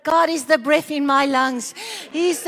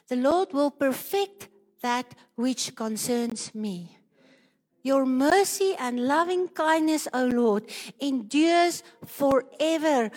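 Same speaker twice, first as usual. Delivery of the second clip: scripture reading; slower than usual. Real, not acted. Reads scripture aloud over music.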